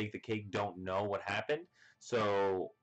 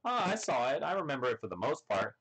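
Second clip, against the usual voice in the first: casual higher voice; 4 semitones higher, faster than usual. Retold or imitated. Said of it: "He's like".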